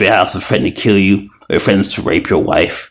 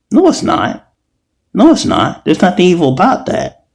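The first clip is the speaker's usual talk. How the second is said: heated denial; 10 semitones higher than usual. Real, not acted. Heated rebuttal, high.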